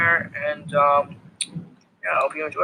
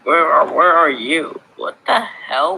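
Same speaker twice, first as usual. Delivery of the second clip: calling out; 3 semitones higher, 6 dB louder, slower than usual. Real, not acted. Calling out to lost teammate.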